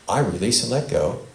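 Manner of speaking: loud, slow lead line; slow recital. Shown as a demonstration. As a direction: say it slowly for repeating. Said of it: "I'll say it slowly, and then you repeat".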